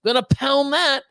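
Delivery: high, pumped-up mock boast; bragging buddy. Buddy bragging about pounding a pizza, hammed-up boast. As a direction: ham up a cocky guy bragging on camera. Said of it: "I see him, like".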